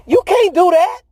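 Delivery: high, incredulous mock voice of the disciples; hammed-up high disbelieving disciples; disciples in disbelief. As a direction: squeak out the disbelief like a stunned friend. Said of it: "that's what they told Peter".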